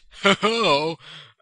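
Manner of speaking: loud, high, playful laugh; hammed-up "ho-ho-ho" laugh; mock villain laugh. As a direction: laugh it out after a joking threat. Jokey threat to friend.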